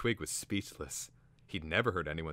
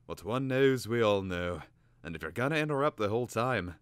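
loud, higher testy bird; 5 semitones higher, 7 dB louder than usual. A narrator's reading. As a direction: scold the interrupter. Cater bird voiced in narration.

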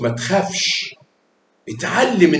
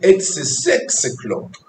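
slow model; 3 semitones higher, 5 dB quieter, much slower than usual. Shown as a demonstration. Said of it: "يبقى اقول".

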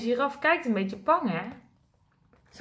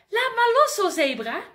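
much higher, louder plea; eager call; 7 semitones higher, 4 dB louder than usual. Acted. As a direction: urge her to let go. Giraf calls to zebra.

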